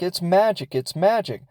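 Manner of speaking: put-on high pleading child voice; little girl voice. Little girl voiced in retold scene.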